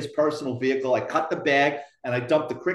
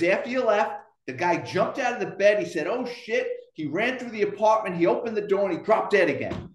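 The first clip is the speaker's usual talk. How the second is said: higher, animated cover story; mock-frantic explanation; 6 semitones higher than usual. Cop lying to the returning EMTs, mock-frantic. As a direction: imitate someone selling an unlikely tale.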